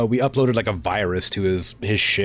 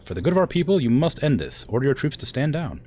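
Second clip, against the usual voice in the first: higher-pitched, earnest appeal to an uncle; formal, higher-voiced demand; pleading royal niece; 5 semitones higher than usual. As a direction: urge him firmly to surrender. Acts Kamea's dialogue.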